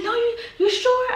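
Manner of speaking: very high, loud, laughing disbelief; shocked mom. Retold or imitated. Mom hearing daughter drove to Orlando, squealing high disbelief. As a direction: shriek it like mom can't believe it. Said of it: "she's like".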